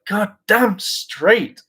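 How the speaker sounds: high, very slow swaggering drawl; cocky agreement. Pretend. New ranger answering the writers with slow swagger. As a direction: savour every word, full of swagger. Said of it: "And I'd be like".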